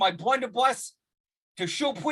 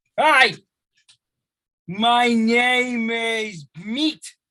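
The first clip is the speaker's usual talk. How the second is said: very slow, deliberate in-character wizard voice; 4 dB louder than usual. Introducing a new battle wizard to the group, in-character voice. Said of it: "let me get into character".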